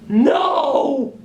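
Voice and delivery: high squeaky puppet yell; sock puppet shout. Acted. Puppet objects.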